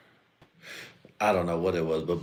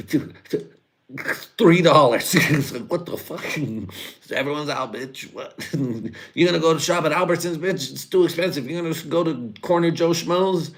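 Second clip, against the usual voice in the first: loud, high, fast laughing outrage; laughing rant; 8 semitones higher, 5 dB louder than usual. Real, not acted. Ranting at the viewers about grocery prices, loud laughing outrage. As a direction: shout it in mock disbelief through laughter.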